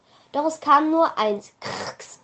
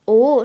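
groan; 8 dB louder than usual. A narrator's reading. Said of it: "stöhnte Tabea".

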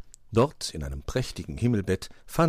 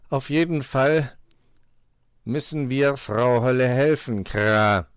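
loud, raised crow voice; cawing crow master; 5 semitones higher, 6 dB louder than usual. A narrator's reading. Crow proposes helping Frau Holle, cawing. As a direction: urge it weightily, ending on a caw. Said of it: "schlug Meister Schwarzrock vor".

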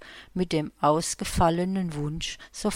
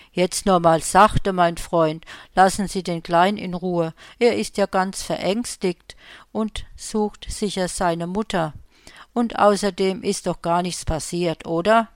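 louder, firm but kind Nikolaus; calm the man down gently; kindly Santa voice; 6 dB louder than usual. Acted. Nikolaus tells the fat man to leave the boy alone.

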